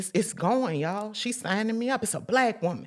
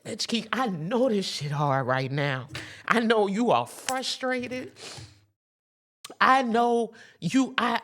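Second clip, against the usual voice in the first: slow comfort; 3 semitones higher than usual. Real, not acted. Comforting friend through hardship.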